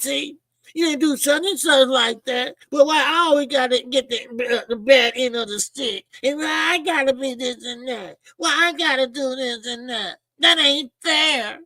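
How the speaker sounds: hammed-up crying complaint, slowing at the end; mock whining. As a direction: act out a man whining it's unfair. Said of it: "can't stand a nigga that whines".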